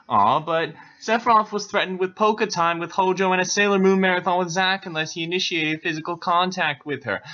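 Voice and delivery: mock-pitying aside. Real, not acted.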